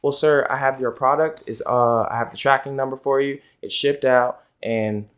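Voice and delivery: polite, measured customer-service voice; lightly voiced formal business call; professional phone manner. Shown as a demonstration. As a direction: give the customer a courteous, businesslike update. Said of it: "same things two different ways".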